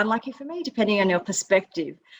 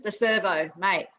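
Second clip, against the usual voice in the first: Aussie slang; 4 dB quieter than usual. Shown as a demonstration. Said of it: "Not the service station".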